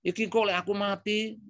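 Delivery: high, half-teasing Javanese quip; joking remark. Retold or imitated. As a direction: toss it off lightly as a joke. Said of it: "sambil berkelakar ngomong".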